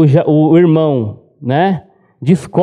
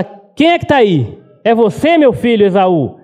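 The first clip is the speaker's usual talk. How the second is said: blind father asking; 4 semitones higher than usual. Retold or imitated.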